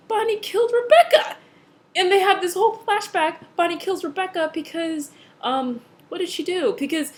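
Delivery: excited. Real, not acted. Plot twist reveal to viewers.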